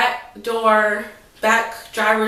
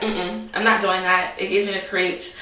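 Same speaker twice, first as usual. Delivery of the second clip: ordinary delivery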